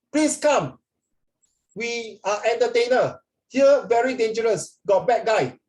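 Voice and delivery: high, urgent telegram voice; telegram message. Retold or imitated. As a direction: read it out like a frantic telegram. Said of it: "the telegram said".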